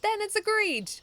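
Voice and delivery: high, loud official declaration; referee's declaration. A narrator's reading. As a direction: declare it settled. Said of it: "Mister Referee declared".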